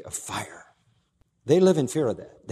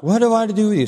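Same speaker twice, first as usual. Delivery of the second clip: louder, higher demon scream; 8 semitones higher, 5 dB louder, faster than usual. Acted. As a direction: cry out like a cornered demon. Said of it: "The screaming again in a loud voice".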